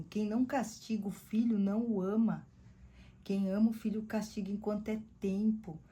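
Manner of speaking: versículo lido com ênfase; leitura bíblica. Shown as a demonstration. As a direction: proclamar o versículo. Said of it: "diz assim". (leitura solene de Provérbios)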